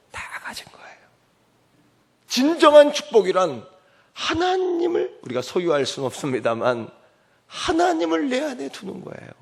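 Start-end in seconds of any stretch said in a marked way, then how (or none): 0.1-1.0 intense whisper. Acted. Sermon whispered climax. 2.3-5.2 high, loud proclamation; full-force preaching. Acted.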